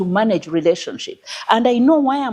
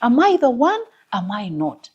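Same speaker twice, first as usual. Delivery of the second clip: humble prayer; 6 semitones higher than usual. Retold or imitated. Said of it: "this is a prayer".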